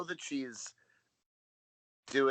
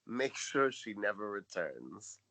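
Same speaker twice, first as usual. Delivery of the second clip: ominous; 2 semitones lower, 6 dB quieter, slower than usual. Acted. Quoting Missus Garrett's ominous order.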